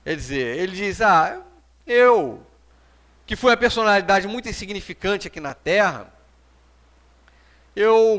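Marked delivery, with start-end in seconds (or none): none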